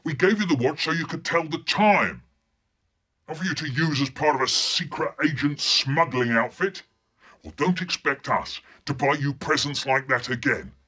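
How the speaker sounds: father scolding son over the watch, angry; furious dad. Acted. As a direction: tell him off hard. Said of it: "He was furious".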